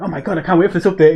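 quick, excited gush with a laugh; retold giddy excitement. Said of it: "got so excited".

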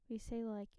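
soft aside whisper. Real, not acted. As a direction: whisper it like a confession. Teasing aside, unvoiced.

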